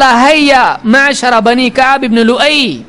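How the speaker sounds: drawn-out summons to the clan; calling out. Retold or imitated. Abu Jahl summoning his clan, a mild drawn-out call. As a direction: imitate a crier's call, stretched out slowly. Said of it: "اس نے پکار کے کہا".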